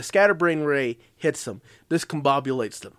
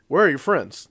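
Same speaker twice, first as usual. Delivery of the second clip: put-on cartoon villain voice; lightly voiced monster taunt; monster's cartoonish voice; 4 dB louder than usual. Monster confronting the Rangers, cartoonish taunting voice. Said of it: "he talks like this".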